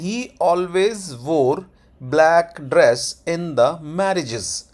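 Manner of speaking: very slow, "black", "dress", "marriages" separated; pronunciation demo. Shown as a demonstration. Teacher showing learners the pronunciation, very slow. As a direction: sound out "always wore" word by word. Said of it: "उसको pronunciation है".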